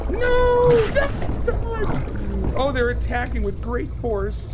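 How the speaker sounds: very high scream easing into loud alarm; shriek, then report the attack in high panic; panicked shriek. Real, not acted. Sharks attack in force.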